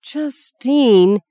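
a mother's outraged reprimand; shocked scold. A narrator's reading. Mother snaps at her daughter for being crude, sharp rebuke.

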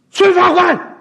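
a high, loud call across the hall. Acted. Xie Jin calls up to the stage, loud and high. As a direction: shout his name to fetch him down. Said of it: "谢晋在地一喊".

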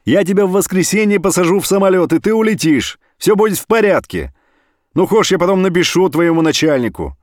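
loud phone talk to the brother; shouting on the phone. Acted. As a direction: make yourself heard across a long-distance call.

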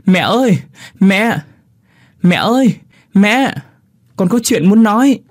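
put-on high, urgent child's shout; calling out from afar. A narrator's reading. Boy runs to his mother with news, shouting out high. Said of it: "Tôi chạy từ xa hét lên".

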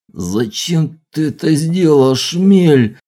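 high, loud whining plea; tearful voice. A narrator's reading. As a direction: whimper it out in pain. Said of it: "плачущим голосом спросил".

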